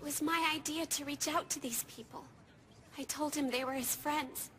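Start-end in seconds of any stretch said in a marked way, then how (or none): 3.0-4.5 low, hushed self-blame; very soft, low-pitched brooding; guilty despair. Acted. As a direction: murmur it low, sinking into grim resolve. Blames self, then grimly resolves.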